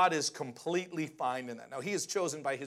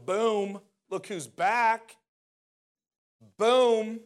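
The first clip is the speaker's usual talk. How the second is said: loud, raised, punchy exclamation; triumphant boom; 5 semitones higher, 8 dB louder, much slower than usual. Acted. Preacher imagines Jesus storming back into the temple, triumphant and loud. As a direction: boom it out like a grand comeback.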